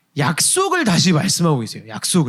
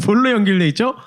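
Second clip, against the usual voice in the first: laughing question; 3 semitones higher than usual. Real, not acted. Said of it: "여러분 입을 다 본드로 붙이셨나요?".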